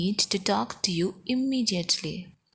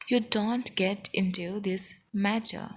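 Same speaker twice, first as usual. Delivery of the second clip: careful word-by-word teaching pace; slow, evenly spaced demonstration; slow model repeat; slower than usual. Shown as a demonstration. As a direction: spell the sentence out slowly for learners. Teacher repeats sentence slowly for learners.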